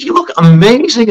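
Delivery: high-pitched gushing amazement; amazed compliment. Retold or imitated. Swimmer praising the teacher's new look, amazed. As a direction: gush it as the astonished swimmer.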